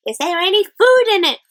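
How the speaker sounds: high, loud sour pirate voice; grumbling pirate. A narrator's reading. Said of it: "said a pirate sourly".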